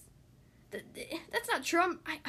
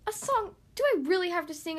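high alarmed question; shocked at having to sing; 4 semitones higher, 4 dB louder than usual. Acted.

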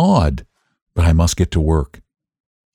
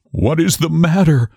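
higher, understated cry of alarm; raised pitch without shouting; mild cry; 9 semitones higher than usual. A narrator's reading. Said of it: "he cried".

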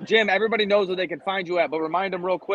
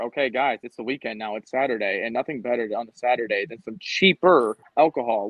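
wrestling promo; 2 semitones lower than usual. Acted. Hosts read a mead sponsor promo.

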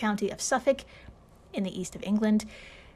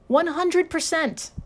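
big reveal; 6 semitones higher, 3 dB louder, slower than usual. Acted. Reveal after drum roll.

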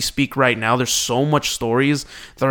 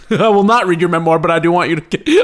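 louder, laughing through it; 2 semitones higher, 4 dB louder than usual. Real, not acted. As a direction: laugh while turning him down. Laughing reply to friend.

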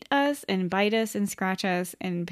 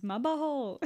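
talking cat; 4 semitones higher than usual. Retold or imitated. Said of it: "like the one that says".

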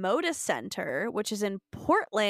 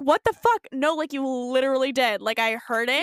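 high, loud opening, then insistent; mock outrage; 3 semitones higher, 3 dB louder than usual. Shelby insisting she heard it, mock outrage. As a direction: insist on it, hammed-up and exasperated. Acted quarrel between show characters.

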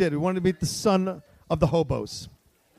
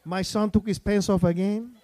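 put-on Chicago parent's voice; mock Chicago accent, rising at the end; slower than usual. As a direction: play it with a thick Chicago accent. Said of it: "I love your Chicago accent".

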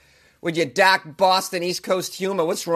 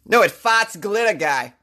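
Boston accent. Shown as a demonstration. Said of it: "fun thing to say with a Boston accent".

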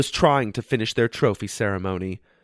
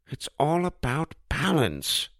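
lightly voiced old man, knowing; a hint of a folksy old owner; wise old pizza man; 3 semitones higher, 4 dB quieter than usual. A narrator's reading. Old Pete lecturing Josh, lightly voiced kindly old man.

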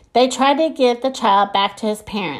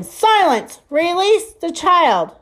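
giant alien booming voice; 8 semitones higher, slower than usual. Acted. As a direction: bellow the order as the alien. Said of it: "The big voice interrupted him".

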